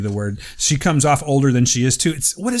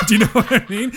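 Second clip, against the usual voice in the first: laughing mock slang; 10 semitones higher than usual. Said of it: "we're like".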